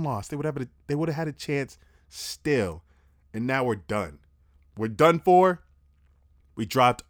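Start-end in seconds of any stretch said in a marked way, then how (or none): 4.8-5.6 frustrated shout. Real, not acted. Frustrated about team loss.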